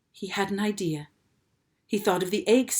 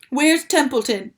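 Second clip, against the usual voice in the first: loud, higher urgent demand; 7 semitones higher, 7 dB louder than usual. A narrator's reading. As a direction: bark the question. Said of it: "he demanded".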